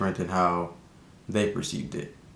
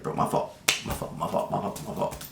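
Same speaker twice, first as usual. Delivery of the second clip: imitating a hushed, breathy apology; mumbled apology; 4 dB quieter than usual. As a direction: half-whisper it, sheepish. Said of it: "he like".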